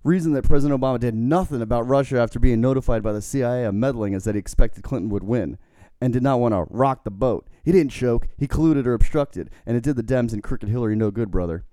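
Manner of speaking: loud wrestler-style tweet reading; lightly voiced wrestling promo; Hulk Hogan. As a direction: hammer out the accusations like a wrestler. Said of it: "I'll try to do it in Hogan's voice".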